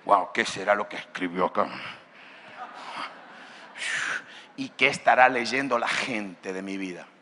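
low, hushed self-questioning; low, pondering inner monologue; wondering to oneself. Acted. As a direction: muse to yourself in a low voice. Voices a believer's musing, daily self-questioning.

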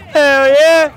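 loud hype yell; excited shout. Real, not acted. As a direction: cheer it out loud. Hyping hometown answer.

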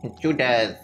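robot voice. Pretend. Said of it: "is this a robot".

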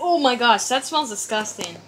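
loud disgusted gasp at a smell; smelling something awful. Real, not acted. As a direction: recoil from a nasty smell. Smelling the eggnog up close.

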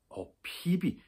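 high, eager cry of a name; excited call. A narrator's reading. Annika calling out excitedly as Pippi returns. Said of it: "råbte Annika ophidset".

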